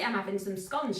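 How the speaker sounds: lightly put-on northern English accent; mother's Lancashire accent. Baker quoting her mother about scones, Lancashire accent. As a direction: imitate mum's Lancashire way of talking. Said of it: "if I talk like my mother".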